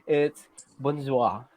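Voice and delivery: bonjour drawn out for the class; slow model pronunciation. Shown as a demonstration. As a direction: say bonjour slowly as a greeting. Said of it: "if you're going to greet someone".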